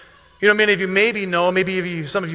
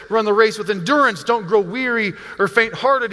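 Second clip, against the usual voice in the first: raised, pressing preacher's appeal; urgent exhortation; 3 semitones higher than usual. Retold or imitated. Pastor voices the author to weary believers, urgent exhortation. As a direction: urge them on as the author would. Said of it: "you can hear the urgency in his voice".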